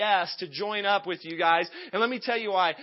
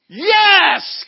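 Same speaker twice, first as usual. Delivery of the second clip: huge, high shouted reply; enthused; 10 semitones higher, 14 dB louder than usual. Retold or imitated. Runner answers lost cyclist, wildly enthused. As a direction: belt it out with over-the-top enthusiasm. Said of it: "And so I'm all enthused".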